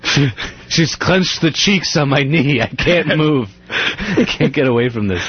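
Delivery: slow, strained hostage plea; trapped and desperate, drawn out; frantic hostage voice. Pretend.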